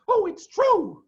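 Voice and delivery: put-on very high, loud children's cry; eager cry. A narrator's reading. Small foxes insisting to Badger, eager cry. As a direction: burst in to convince him. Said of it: "cried the small foxes".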